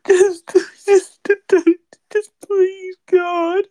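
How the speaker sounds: fake-cry the pleading through laughter; mock sobbing plea. Teasing friends who made him cry, mock sobbing.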